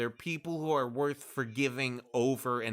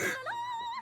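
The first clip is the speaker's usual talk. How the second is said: high squeal; 7 dB quieter than usual. Retold or imitated. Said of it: "she was like".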